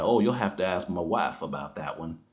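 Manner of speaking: lightly imitated Southern accent. Critic mimics Will Smith's lines with certain words, lightly Southern accent. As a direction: put on a bit of a Southern twang. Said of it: "this kind of Southern accent".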